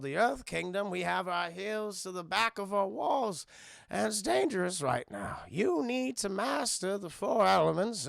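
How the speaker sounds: put-on grave, slow old king voice; Bumi. Bumi warns Aang the world is in danger, grave speech. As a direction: deliver a measured, serious warning. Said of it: "he gets a little serious".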